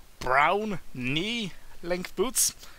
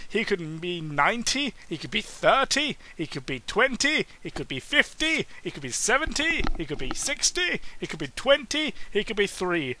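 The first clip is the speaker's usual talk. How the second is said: rising playful list; 4 semitones higher than usual. Real, not acted. Rattling off silly guessed ages.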